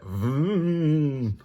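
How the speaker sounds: mock engine vroom; engine noise. Shown as a demonstration. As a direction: roar like a bomber engine. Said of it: "How would you say that?".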